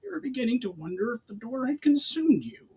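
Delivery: high sneering goblin voice; a cocky goblin teasing; Brawl, mocking goblin. A narrator's reading.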